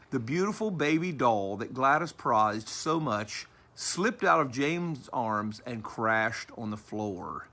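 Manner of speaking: slow, deliberate storytelling; story narration. A narrator's reading. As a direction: draw the tale out for young listeners. Reads story aloud.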